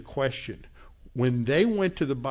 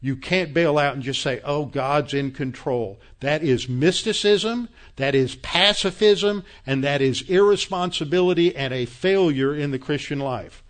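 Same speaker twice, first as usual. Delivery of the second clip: real frustration building into louder rebuke; angry; 4 dB louder than usual. Real, not acted. Preacher rebuking timid believers who opt out, angry and louder. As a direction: scold them, getting louder toward the end. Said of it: "I'm sorry I'm angry".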